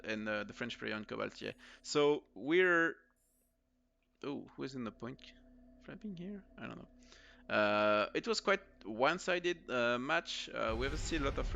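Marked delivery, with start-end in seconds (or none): 4.2-7.5 unvoiced whispered aside; whispering. Real, not acted. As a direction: whisper it under your breath. Muttered aside while watching.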